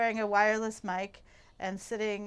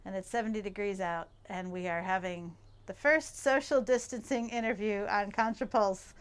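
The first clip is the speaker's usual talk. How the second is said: muffled by mask. Real, not acted. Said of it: "apologies if it sounds a little muffled".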